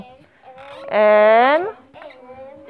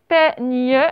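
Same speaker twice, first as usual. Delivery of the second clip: PEIGNE split slowly into two syllables; dictation. Shown as a demonstration. Teacher repeats the word for pupils writing, dictation.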